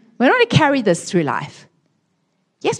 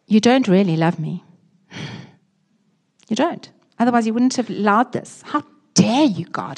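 angry complaint to God; 2 semitones higher than usual. Retold or imitated.

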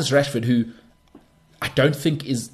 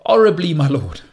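a touch of a grave servant, louder; a deadpan, louder punchline from the messenger; lightly voiced messenger; 3 semitones higher, 5 dB louder than usual. Messenger answering his lord, lightly voiced deadpan. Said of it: "the messenger boy comes in".

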